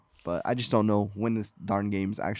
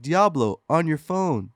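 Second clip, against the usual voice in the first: lightly voiced presenter, pitched up; mock showman's pitch, higher; mock announcement; 5 semitones higher, 4 dB louder, slower than usual. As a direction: announce it like a product reveal. Mimics presenter's announcement at panel.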